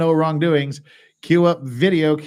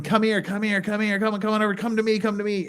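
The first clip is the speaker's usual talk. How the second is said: imitating cop calling; 5 semitones higher than usual. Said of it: "the cop is going".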